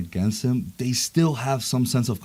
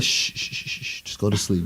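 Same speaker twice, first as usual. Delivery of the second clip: soft shushing whisper; whispering over a crib; 4 semitones lower, 6 dB quieter than usual. Retold or imitated. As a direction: hush him like a baby. Carol soothing Thanos.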